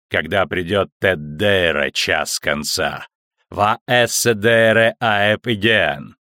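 prophesy slowly and darkly; ominous prophecy voice. Acted. Prophecy in metallic voice. (зловещее пророчество)

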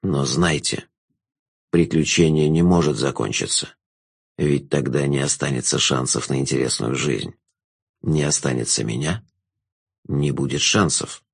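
a knowing villain savouring the moment; sly jester. A narrator's reading. Jester low.

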